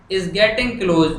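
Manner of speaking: very slow, word by word; slow dictation. Shown as a demonstration. Teacher writing the letter on the board, slow dictation. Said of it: "अब मैं लिखना शुरू कर रहा हूँ".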